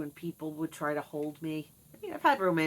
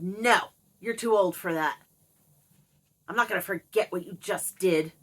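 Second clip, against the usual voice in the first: louder stern refusal; mother turning down her daughter, sharp; mother scolding; 7 dB louder than usual. Retold or imitated. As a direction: scold the child firmly.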